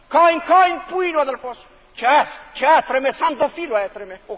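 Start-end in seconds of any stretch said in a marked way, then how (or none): 0.1-1.7 God calling Cain. Retold or imitated. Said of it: "εφώνασε τον αδελφόν του".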